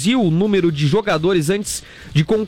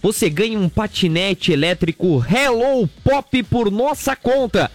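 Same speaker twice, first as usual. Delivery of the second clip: radio ad read. Acted. Reads Hello Move ad. (leitura de comercial de rádio, slogan bem arrastado)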